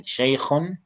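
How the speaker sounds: Shaykhun with a throaty kh from the throat; model pronunciation. Shown as a demonstration. Teacher models kha for a struggling student, throaty kh. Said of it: "Can you try that again?".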